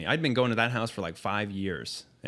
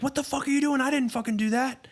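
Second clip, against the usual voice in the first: hammed-up angry denial; mock outraged denial; faster than usual. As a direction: act out the outburst he didn't make. Imagined angry denial to victims.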